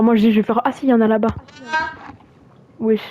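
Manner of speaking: clipping distorted mic; overloaded mic crackle; mic saturation. Real, not acted. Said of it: "La saturation du micro".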